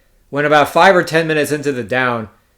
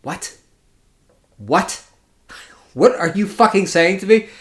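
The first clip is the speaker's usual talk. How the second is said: hushed "what?" building to an irritated question; 5 semitones higher than usual. Acted. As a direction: act out baffled irritation, held back at first. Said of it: "getting a little, like, irritated".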